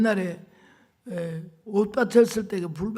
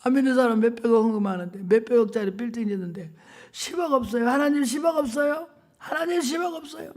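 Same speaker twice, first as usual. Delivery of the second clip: higher, urgent pleading questions; retold crying out; 4 semitones higher than usual. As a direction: press God with mounting pleas. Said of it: "소리 질러". (하나님께 따지듯 높아지는 애원)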